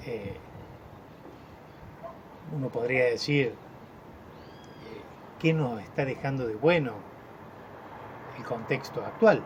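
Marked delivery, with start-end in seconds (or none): 5.4-9.4 long pause after "bueno" before "el contexto actual"; reflective pause. Shown as a demonstration. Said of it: "Y hacer una breve pausa".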